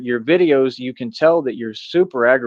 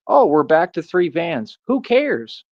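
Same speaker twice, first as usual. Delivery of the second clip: mocking imitation; 4 semitones higher, slower than usual. Mocking the other man's boast.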